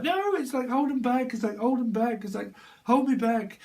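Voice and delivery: high, loud yelling to restrain someone; high shouted hold him back. Retold or imitated. Brawlers yelling to hold each other back, high loud shouts. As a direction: bellow to hold a fighter back.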